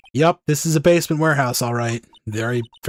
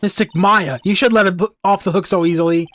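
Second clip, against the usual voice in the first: indignant scolding; 5 semitones higher, 5 dB louder than usual. Acted. Girl scolds Maya to punish Nick.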